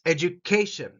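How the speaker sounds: Education with ca stressed. Shown as a demonstration. Teacher modelling Education for students, stress on ca. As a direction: lean on the ca in Education. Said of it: "this word K gets the emphasis".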